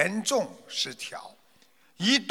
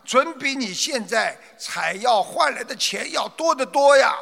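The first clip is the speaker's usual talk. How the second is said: merchant calls up the slope, raised and higher; calling out; 5 semitones higher than usual. Acted. Merchant hails a stranger on the hillside, calling out. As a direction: call out to the herb picker, eager to strike a deal. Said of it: "他便呼喊着".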